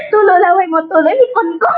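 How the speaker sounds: high laughing wail; crying laughter. Real, not acted. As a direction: shriek it through laughter. Crying laugh while eating lemons.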